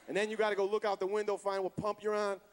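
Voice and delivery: ordinary talk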